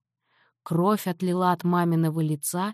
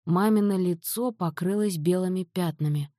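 ordinary delivery

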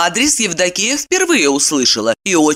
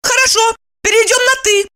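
put-on much higher, tense young woman; voiced heroine, high and curt; Evdokiya's voice. A narrator's reading. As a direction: cut him off sharply in a high voice.

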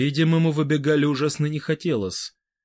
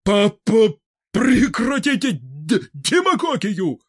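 louder, higher stammered outburst; exploding at last; 9 semitones higher, 7 dB louder, slower than usual. Acted. Fedor Semenovich snapping at Vybegallo, stammered outburst. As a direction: finally blow up, still stuttering. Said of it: "Взорвался, наконец".

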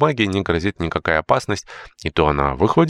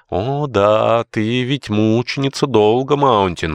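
grim sarcasm; 6 semitones higher, 3 dB louder, slower than usual. Acted. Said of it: "мрачно сказал Джордж".

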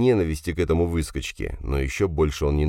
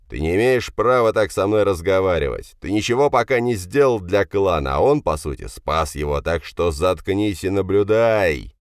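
stern father, raised voice; angry rebuke; 4 semitones higher, 3 dB louder than usual. Acted. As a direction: put the son firmly in his place. Furious father rebukes his son. (сердитая отповедь отца)

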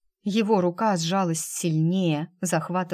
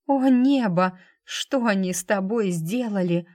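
anguished cry; 2 semitones higher, 3 dB louder than usual. Acted. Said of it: "с трудом протолкнула слова сквозь пересохшее горло".

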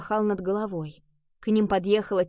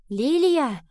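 raised, loud searching call; 7 semitones higher, 5 dB louder than usual. A narrator's reading. Nova calls for her cat in the silent tower, calling out. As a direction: call the name into an empty tower. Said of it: "позвала Нова".

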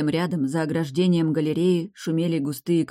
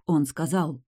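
ordinary delivery, nothing marked

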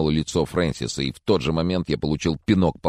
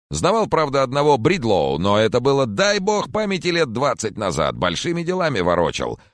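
put-on higher, louder chatty old gentleman; fussy old Mr. Corcoran, higher and louder; jolly old man; 9 semitones higher, 4 dB louder than usual. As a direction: play the doting old neighbour, up high. Corcoran rambling.

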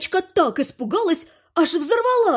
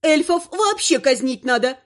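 презрительно сплюнув; 6 semitones higher than usual. Acted. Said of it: "сплюнула шиншилла".

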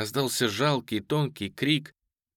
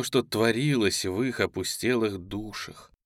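plain reading voice

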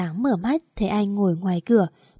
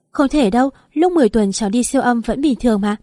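shocked denial; 2 semitones higher, 4 dB louder than usual. Acted. Pregnant woman refusing the doctor's verdict, shocked and louder. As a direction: refuse to believe the news. Linh hears baby has no brain.

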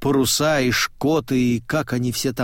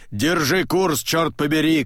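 higher cursing order; angry shout; 5 semitones higher than usual. A narrator's reading. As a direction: swear at her to hold course. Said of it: "кричит ослик". (злой крик с руганью)

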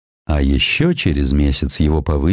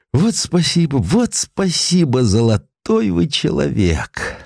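higher, slow obsequious thanks; a meek official bowing and thanking, higher and slow; fawning clerk; 8 semitones higher, slower than usual. Acted. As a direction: gush over the boss like a grateful little clerk. Clerk fawningly thanks his superior.

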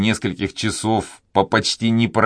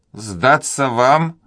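презрительно; 6 semitones higher, much slower than usual. A narrator's reading. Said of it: "с презрительной улыбкой".

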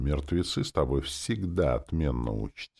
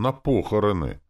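strained wheeze; 6 semitones higher, 5 dB louder than usual. A narrator's reading. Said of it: "просипел он с надрывом".

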